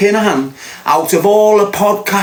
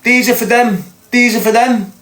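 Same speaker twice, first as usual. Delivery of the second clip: raised, insistent mock yell; retold scream; 6 semitones higher than usual. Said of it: "I'm screaming at people".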